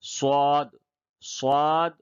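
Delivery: صاد with a heavy s, no whistle. Shown as a demonstration. Teacher contrasting two letters, صاد heavy without whistle. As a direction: say صاد full and unwhistled. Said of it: "یہ بغیر سیٹی کے".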